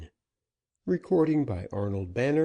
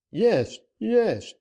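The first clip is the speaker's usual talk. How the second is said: high, urgent yes yes; desperate eagerness; 11 semitones higher, 5 dB louder than usual. A narrator's reading. Banker begging Dick for a way out, high and urgent. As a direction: grab at the chance.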